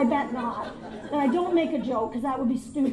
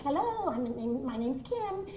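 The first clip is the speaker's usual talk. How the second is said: nice; 5 dB quieter, slower than usual. Retold or imitated. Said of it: "But now they're nice".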